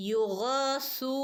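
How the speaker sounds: യുഗസു with the vowel held two beats; two-beat madd. Shown as a demonstration. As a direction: stretch the madd in യുഗസു slowly. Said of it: "രണ്ടനക്കം നീട്ടി കൊടുക്കണം ട്ടോ". (യുഗസു രണ്ടനക്കം നീട്ടി)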